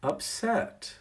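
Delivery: slow down and gently name their feeling; calmly answering an upset staffer. Shown as a demonstration. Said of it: "The answer is".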